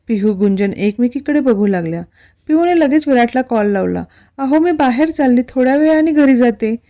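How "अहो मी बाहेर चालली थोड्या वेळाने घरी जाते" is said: higher, louder clipped irritation; annoyed. Acted. Wife phoning husband to defy him, annoyed. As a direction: tell him off, irked. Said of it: "ती चिडूनच बोलली".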